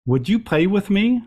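a hint of a small cat asking; lightly voiced little cat. Dream cat asking the speaker to play with it. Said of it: "in a little cat voice says".

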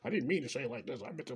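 quick, backpedaling excuse; hurried mock excuse-making; mock scrambling. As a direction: imitate someone caught out, scrambling fast. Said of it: "Then they're scrambling".

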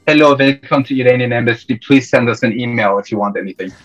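imitating an embassy clerk's Iranian accent; thick Iranian accent. Embassy clerk answering a caller's phone call, thick Iranian accent. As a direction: put on a hint of heavy Iranian-accented phone greeting. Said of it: "in the thickest Iranian accent".

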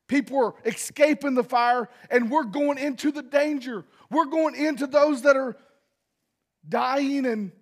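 fervent preaching. Acted. Pastor urging church to rescue the lost, fervent preaching. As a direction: drive the call home to the church.

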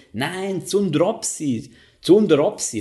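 „Zundropsi“ langsam und betont korrigiert, höher; korrigierende Frau, nachgemacht. Retold or imitated. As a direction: die Frau verbessert ihn deutlich. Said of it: "Und sie so". (leicht nachgeahmte Korrektur der Frau)

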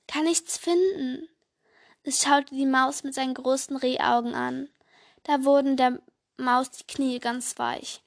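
put-on lively storytelling voice for children; story narration. A narrator's reading. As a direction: read it like a bedtime story. Reads Christmas story aloud. (Geschichte vorlesen für Kinder)

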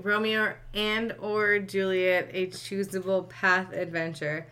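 slow, incredulous reread; slow disbelief. Real, not acted. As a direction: repeat it slowly in disbelief. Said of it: "Wait, wait".

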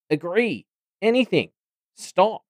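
high-pitched panicked begging; desperate pleading. A narrator's reading. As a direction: beg frantically in short high bursts. Bumcake begging in agony.

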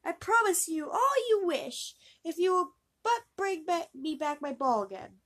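very high, loud oh yes; eager princess. Acted. Princess eagerly agrees to the frog, high and loud. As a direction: gush out the promise.

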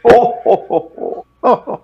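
sharp rising oh oh; alarmed oh, oh. Real, not acted. Reacting to swearing on air.

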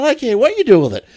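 high-pitched retort through laughter; laughing mock exasperation. Tourist refusing the seller's signed CD, laughing exasperated retort. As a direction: act out exasperation while laughing.

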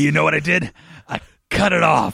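playful imitation of a yelling inmate; lightly hammed-up movie yell; mock yelling. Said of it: "he's yelling at Pee-wee".

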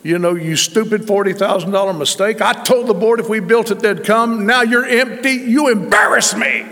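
a hint of a frustrated pastor venting; mock cursing. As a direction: scold the empty pit, getting worked up. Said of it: "I've been cursing it with my mouth".

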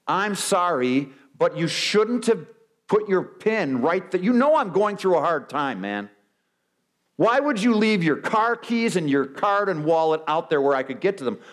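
grudging sorry, rising into blaming excuses; hammed-up self-justifying apologizer; mock qualified apology. Preacher mocking a qualified apology, grudging then indignant.

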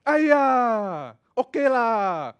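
exasperated Singaporean sigh-word; Singlish exclamation. Shown as a demonstration. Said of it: "The word ayah".

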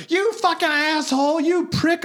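high mocking girlfriend yell. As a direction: spit it out like the angry girlfriend. Girlfriend yelling at narrator.

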